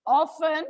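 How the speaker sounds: often with a silent T, "OFF-en"; British often. Shown as a demonstration. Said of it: "F is silent".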